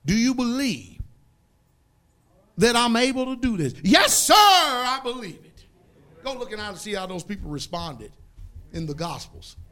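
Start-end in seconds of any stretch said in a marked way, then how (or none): 0.0-5.6 much louder, higher call and response; Jesus asks and the believer shouts yes; fervent answer. Retold or imitated. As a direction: cry out the yes with full heart. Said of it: "I'm talking about".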